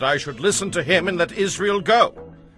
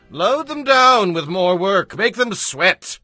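high, slow, loud and cruel order; harsh loud command; 11 semitones higher, 5 dB louder, slower than usual. Acted. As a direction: hammer each order out slowly and loudly.

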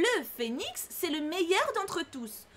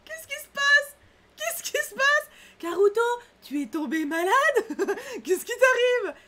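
much higher, louder hammed-up shock; mock alarm; 9 semitones higher, 5 dB louder than usual. Player teases grumpy character over compliment, mock alarm. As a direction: gasp in fake worry.

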